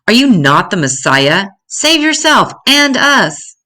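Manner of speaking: a dying thief yelling at the man beside him; yelling taunt. Acted. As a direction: fling the demand sideways at him.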